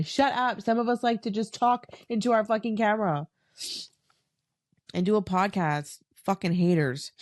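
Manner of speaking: sassy. Real, not acted. Mock clapback at haters.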